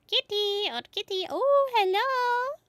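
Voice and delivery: high, delighted cat greeting; excited. Real, not acted. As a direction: squeal with joy at the kitty.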